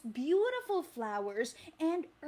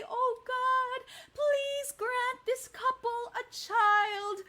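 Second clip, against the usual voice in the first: higher, slow pleading prayer; prayer to say along; 6 semitones higher, slower than usual. Shown as a demonstration. Teacher leading the kids in prayer, slow and pleading. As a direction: pray it slowly and earnestly. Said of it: "can you say".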